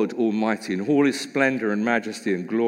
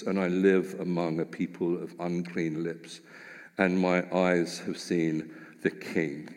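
understated lament; 4 semitones lower, 4 dB quieter than usual. Acted. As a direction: let Isaiah's despair sink quietly. Prophet's lament within reading.

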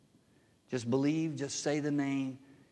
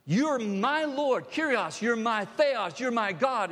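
loud, slow, higher declaration; emphatic declaration; 8 semitones higher, 5 dB louder, slower than usual. Retold or imitated. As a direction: proclaim it with everything. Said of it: "He was like".

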